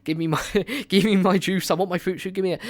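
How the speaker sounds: put-on a light childish demanding voice; whiny little kid. Vlogger plays a greedy little nerd boy, mild childish whine. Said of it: "I'm a little nerd boy".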